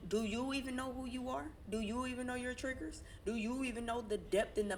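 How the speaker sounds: high and pointed. Real, not acted. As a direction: push the question up high. Pointed rhetorical questions.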